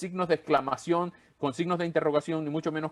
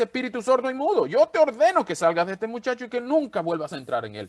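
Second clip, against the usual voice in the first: louder, higher voice giving an order; commanding rebuke; 7 semitones higher, 5 dB louder than usual. Acted. Jesus rebuking the demon, commanding and loud.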